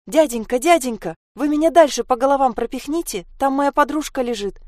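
put-on high, pressing child's plea; urgent little girl. Sasha urges the man to pass her forward, pleading.

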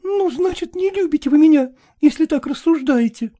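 a hint of a woman accusing her lover; hurt young woman. (обиженная молодая женщина, слегка)

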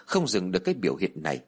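usual speaking voice

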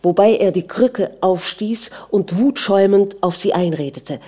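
ordinary delivery

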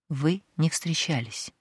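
a quiet, menacing warning; growled warning. Acted. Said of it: "тихо и угрожающе произнёс Халид".

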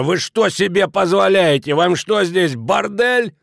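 high, loud cocky scolding; fly at him like a rooster; bristling outrage. A narrator's reading. Innkeeper rushing at Kraner, outraged. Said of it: "петухом налетел на Кранера".

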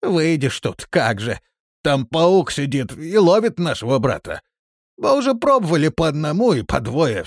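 plaintive grumbling; sobbing. A narrator's reading. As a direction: explain miserably, as if through tears. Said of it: "всхлипывая, икая".

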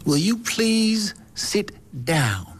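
slow, high whispered Texan drawl; whispered Texas schoolmarm scolding. Retold or imitated. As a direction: hiss the rebuke slowly in a Texan drawl. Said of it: "met een zware Texas drawl, dus ze sprak heel langzaam".

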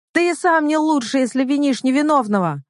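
high accusing cry; shouted out. A narrator's reading. Heroine defending Damir, crying out at Fahir. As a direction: fling it at him, pitch way up. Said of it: "выкрикнула я".

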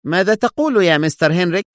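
high-pitched shocked question; startled, rising question; astonished. A narrator's reading. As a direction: exclaim in disbelief. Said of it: "وهو يهتف في دهشة".

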